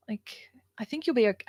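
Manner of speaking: whispered, mock-soothing; taunting whisper. Whispering a taunt at Donald Trump. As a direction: hush it like a secret taunt.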